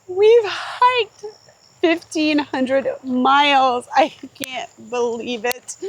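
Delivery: excited. Real, not acted. Celebrating hiking milestone.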